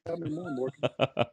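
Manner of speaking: put-on slow, drawn out Southern accent; a lazy Southern purr. A Southern accent swooning to Morgan Freeman. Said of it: "throw the Southern accent on it".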